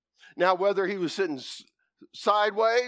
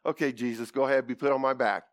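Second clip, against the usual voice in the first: colt agreeing; 7 semitones lower than usual. Retold or imitated. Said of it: "I says".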